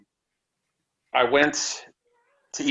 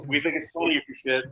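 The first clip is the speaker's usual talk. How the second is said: laughing quote; 4 dB quieter, faster than usual. Retold or imitated. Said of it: "basically saying".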